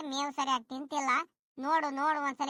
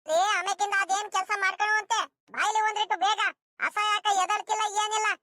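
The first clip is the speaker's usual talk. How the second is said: higher-pitched, pressing summons; urgent calling; 4 semitones higher than usual. Acted. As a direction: hurry the husband over to the sick cow. Worried wife urgently summons husband. (ಆತುರದಿಂದ ಕೂಗಿ ಕರೆಯುವುದು)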